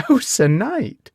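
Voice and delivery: high, slow delighted gasp on "Oh, Sir Knight". A narrator's reading. The lady gasps at Gawain's embellished tale, high and slow. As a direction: swoon over his story with a gasp. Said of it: "she gasped".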